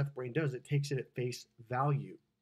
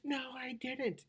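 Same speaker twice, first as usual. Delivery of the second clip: high, drawn-out imitation of her protest; mock denial; 11 semitones higher, 5 dB quieter, slower than usual. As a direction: act out a stretched, high contradiction. Couple quarrelling, woman denies it.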